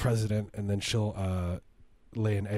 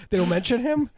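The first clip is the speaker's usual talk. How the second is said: surprised; 13 semitones higher, 5 dB louder than usual. Real, not acted. Surprised at the news.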